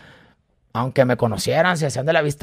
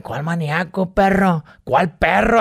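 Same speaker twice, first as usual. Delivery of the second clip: mock angry retort; 4 semitones higher than usual. Locals angrily retort.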